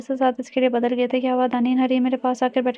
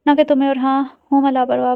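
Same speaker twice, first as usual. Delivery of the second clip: louder, sharp angry comeback; angry retort; 5 dB louder than usual. Acted. Basim angrily answers Daneen's accusation of carelessness, angry retort. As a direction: snap back at her in anger. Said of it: "इतने गुस्से से बोल रहा था".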